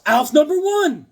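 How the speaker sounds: high, loud, drawn-out announcement; excited shout. Real, not acted. Host showing off Alf comic, excited shout. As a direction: proclaim your prize find slowly. Delighted at gift box find.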